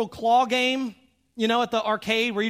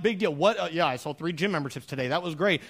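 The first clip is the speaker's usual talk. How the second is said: bored husband; 5 semitones lower than usual. Retold or imitated. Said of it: "I'm like".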